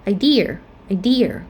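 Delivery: "idea" stressed on DE; "idea" as i-DE-a, twice; second-syllable stress. Shown as a demonstration. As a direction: lean on the middle of "idea". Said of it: "we stress at the second syllable".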